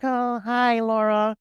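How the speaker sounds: a touch of mock awe; awestruck Steve. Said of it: "Steve is in awe when he says".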